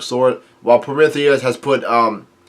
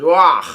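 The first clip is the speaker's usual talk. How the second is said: a short, louder, higher "Wah!" cry; mock yell "Wah!"; 4 semitones higher, 4 dB louder than usual. A narrator's reading. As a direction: burst out with a sudden yelp. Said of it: "yells out".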